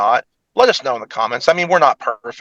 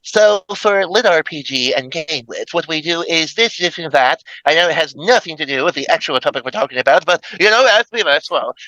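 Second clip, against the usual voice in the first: mock presenter spiel; 2 semitones higher than usual. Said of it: "I'm over here just being like".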